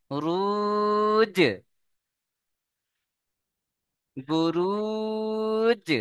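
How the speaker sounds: রুজ chanted long and high, with a bounced জ at the end; qalqala recitation. Shown as a demonstration. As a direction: intone রুজ slowly, then knock the জ. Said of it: "জিমকে ধাক্কা দিতে হবে".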